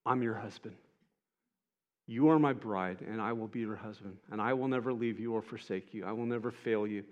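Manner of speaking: a gentle vow spoken close; tender promise. Acted. Jesus tenderly reassures the worthless-feeling woman, soft and low.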